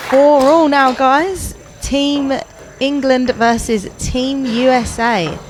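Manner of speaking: announcer voice. Real, not acted. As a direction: announce the score to the viewers. Host announcing the score.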